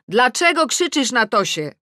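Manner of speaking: shout. A narrator's reading. Adam calling from the garden, shouting. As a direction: call out a loud reproach. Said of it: "Adam krzyczy z ogrodu".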